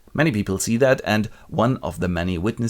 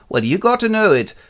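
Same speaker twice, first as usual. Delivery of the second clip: much higher, louder snappy woman's voice; mock shrill neighbor; 13 semitones higher, 7 dB louder than usual. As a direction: bark at her in a high shrill voice. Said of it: "her neighbor goes".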